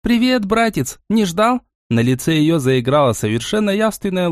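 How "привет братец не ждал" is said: understated shout across a hall; mild narrated shout. A narrator's reading. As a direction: call out a greeting with raised pitch. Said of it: "закричала на всю аудиторию".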